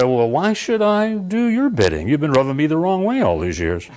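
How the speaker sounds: a lightly voiced genie, high at first then settling; grumbling genie. Genie complaining to its owner, lightly voiced and high. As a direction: play the fed-up genie, lightly. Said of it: "able to communicate with you and say".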